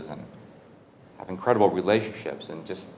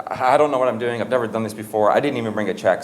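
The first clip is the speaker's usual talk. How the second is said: higher-pitched, mildly flustered stammer; 3 semitones higher, 3 dB louder than usual. Acted. Receptionist admitting he has never done this, mildly flustered. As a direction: imitate an overwhelmed, apologetic young worker. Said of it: "He was all flustered".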